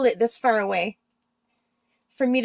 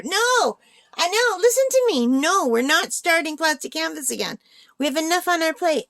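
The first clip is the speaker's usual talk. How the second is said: arguing with herself; 5 semitones higher than usual. Pretend. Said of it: "the argument I just had with myself".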